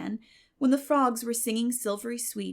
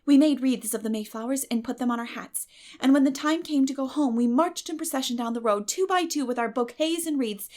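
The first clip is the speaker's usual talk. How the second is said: put-on higher, bright-eyed chatter of an eager girl; eager girl Anne; 4 semitones higher, 5 dB louder than usual. Anne telling Marilla about Mayflowers, eager girl's chatter. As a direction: gush like a dreamy, talkative girl.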